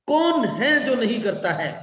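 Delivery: "कौन" punched high, falling at the end; emphatic question. Shown as a demonstration. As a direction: hit "कौन" high, then let the question fall. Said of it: "You need to put emphasis on the question".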